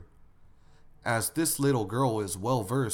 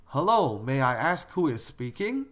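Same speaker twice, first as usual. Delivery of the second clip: answering the phone; 3 semitones higher, 3 dB louder than usual. Acted.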